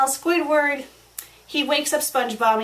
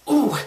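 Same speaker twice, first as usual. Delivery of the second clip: frustrated "ooh" through held-back anger; exasperated groan; 3 dB louder than usual. Real, not acted. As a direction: groan as if holding back a scream. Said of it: "just makes me wanna scream".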